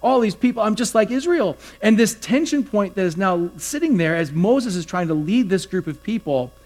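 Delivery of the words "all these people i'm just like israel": higher-pitched complaining to God; mock grumble, pitch climbing as it goes; grumbling. Pastor acting out his own panicky prayer, grumbling. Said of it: "So I go to grumble".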